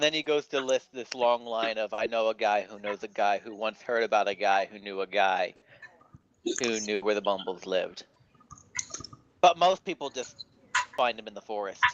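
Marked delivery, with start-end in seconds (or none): 1.9-8.0 lightly voiced Jewish accent; a hint of a Jewish accent, rambling. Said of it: "sounds like you're doing the accent for it". 9.4-11.8 lightly voiced Jewish accent; a touch of a Jewish accent. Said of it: "sounds like you're doing the accent for it".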